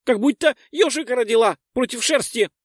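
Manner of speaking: high complaining pixie; squeaky pixie. Acted. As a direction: whine it in a tiny voice. (жалобная пикси)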